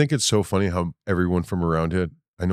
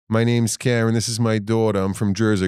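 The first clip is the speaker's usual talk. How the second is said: put-on woman introducing herself in a Jersey accent, slightly higher; 4 semitones higher than usual. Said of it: "all of Jersey talked like that".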